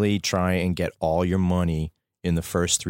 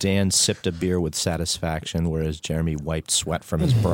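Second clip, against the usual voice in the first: mock narration; 3 semitones lower than usual. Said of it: "For the listener".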